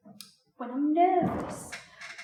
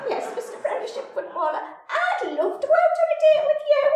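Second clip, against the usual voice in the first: high, bleating, giddy voice, loud on the end; Larry the Lamb impression; 14 semitones higher, 7 dB louder, faster than usual. Telling the footballer yes on the phone, high bleating voice. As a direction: bleat it out like a nervous little lamb. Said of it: "sounded like Larry the fucking Lamb".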